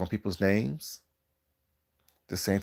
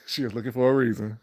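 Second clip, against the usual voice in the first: laughing; 3 semitones higher than usual. Real, not acted. Teasing laugh at Miss Leah.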